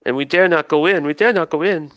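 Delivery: fearfully refuse, voice lifted in anguish; anguished plea. Acted. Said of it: "in anguish".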